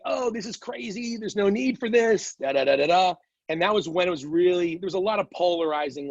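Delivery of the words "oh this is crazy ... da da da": higher-pitched imitation of scoffing sceptics; mock dismissiveness. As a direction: wave it all away as overblown, in mimicry. Imitates people dismissing the virus.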